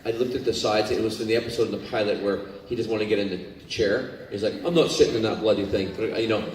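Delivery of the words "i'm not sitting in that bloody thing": lightly Scottish character line; a touch of Scottish in an acted line; Scottish accent. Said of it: "it's just Scottish to me".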